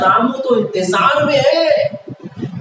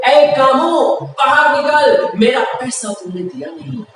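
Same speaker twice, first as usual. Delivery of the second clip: shouting out; 3 semitones higher than usual. Acted. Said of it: "जोर से चिल्ला रहे कि".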